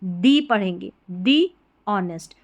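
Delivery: दी ऑनेस्ट with a long ee on दी; the as dee. Shown as a demonstration. Teacher modeling दी ऑनेस्ट for students. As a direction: stretch दी before ऑनेस्ट. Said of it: "तो यहाँ पर टीएचई को हम".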